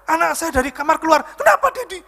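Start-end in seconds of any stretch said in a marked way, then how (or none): 1.3-2.0 high, startled questioning; alarmed child imitation. Preacher voicing his child running from the bedroom, high alarmed question. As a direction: mimic a worried child rushing to ask.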